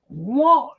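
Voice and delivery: high, sharp disbelieving what; startled guard hearing of the ghost, a high, sharp what; shocked what. Retold or imitated. Guard told about ghost figure.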